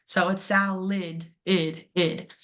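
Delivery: salid, the ending said as a short weak id; schwa ending. Shown as a demonstration. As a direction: sound out the second syllable as id, slowly. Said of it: "makes the I sound".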